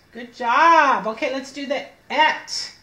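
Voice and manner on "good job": praise. Real, not acted. Teacher praising child's reading.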